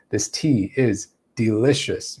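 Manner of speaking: slow statement, "delicious" dropping at the end; downward inflection. Shown as a demonstration. Teacher demonstrating a statement, falling on "delicious". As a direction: let "delicious" settle downward. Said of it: "using a downward".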